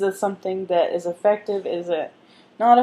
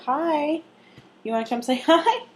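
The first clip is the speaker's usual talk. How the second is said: talking to the dog; 8 semitones higher than usual. Real, not acted. Greeting dog in pet voice.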